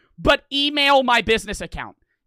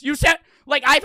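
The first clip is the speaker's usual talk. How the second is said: shout; 6 semitones higher, 6 dB louder than usual. Real, not acted. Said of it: "Yeah, I'm screaming".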